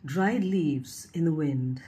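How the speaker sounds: measured poetry reading, pausing after each line; poem recitation. Acted. Host reading a young poet's verses about trees, recited. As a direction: recite it line by line, lifting the key words.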